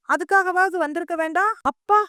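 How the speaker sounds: an indignant wife venting, building to a cry; angry outburst. Acted. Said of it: "கோவமா சொல்ல".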